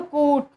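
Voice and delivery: कूट with the ऊ drawn out long. Shown as a demonstration. Teacher demonstrating a long ऊ vowel. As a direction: stretch the ऊ in कूट. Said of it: "आप खुद देख के देखिए".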